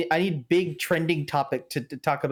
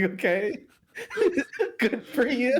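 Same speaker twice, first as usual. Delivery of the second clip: sarcastic; 10 semitones higher, slower than usual. Retold or imitated. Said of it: "And I was like".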